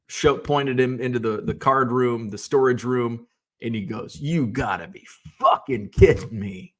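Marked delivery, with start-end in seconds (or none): 4.2-6.7 retold disbelief. Retells visitor seeing storage room.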